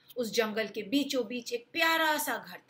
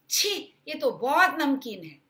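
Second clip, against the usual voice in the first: a louder yuck at the salty soup; disgusted; 4 semitones higher, 5 dB louder than usual. Acted. Goldilocks tastes papa bear's salty soup, disgusted. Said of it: "Goldilocks बोली".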